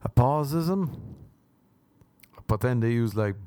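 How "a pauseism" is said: pauseism with the ism set apart; pause before ism. Shown as a demonstration. Host naming his verbal habit, pauseism split before ism. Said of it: "a pause with the word ism".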